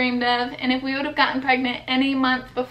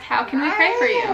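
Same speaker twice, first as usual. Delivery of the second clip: gentle question; 9 semitones higher than usual. Shown as a demonstration.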